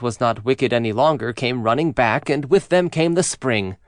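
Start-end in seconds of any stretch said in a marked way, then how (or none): none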